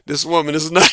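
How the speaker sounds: put-on low, grumbled complaints of a tired old man; grumbling old train driver. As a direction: gripe under your breath like a worn-out driver. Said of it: "he's mumbling to it".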